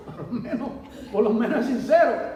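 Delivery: repetido entre risas; riendo. Real, not acted. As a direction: se ríe de la franqueza del profeta. (riéndose del profeta sincero)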